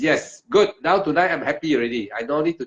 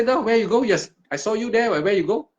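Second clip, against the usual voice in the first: higher-pitched imitation of people asking; puzzled onlookers; 7 semitones higher than usual. Puzzled people question the returning meditator, higher-pitched mock bewilderment.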